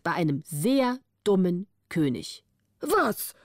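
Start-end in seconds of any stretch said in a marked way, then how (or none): 2.8-3.3 startled what. A narrator's reading. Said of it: "rief der König".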